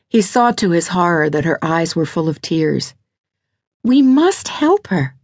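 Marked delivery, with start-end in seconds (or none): 3.8-5.1 much higher, slow, urgent plea; pleading wife. Acted. Lydia, eyes full of tears, begs Reese to help, pleading. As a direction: plead in a high, drawn-out woman's voice. Tearful wife begging husband.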